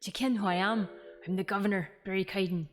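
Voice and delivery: put-on Scottish governor voice; rough Scottish accent. Governor introducing himself to visitors, rough Scottish accent. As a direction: play the governor with an amateur Scottish lilt. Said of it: "they write it as, like, a Scottish person".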